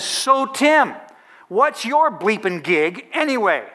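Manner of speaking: high-pitched retold rant, slowing on the question; mock fired-up politician; ranting mid-tirade. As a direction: toss the question out at the peak of a rant. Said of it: "he goes off like a volcano".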